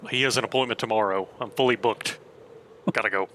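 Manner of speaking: loud, fast brush-off; hurried voice. Acted. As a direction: rush off, fully booked. GM voicing hurried character.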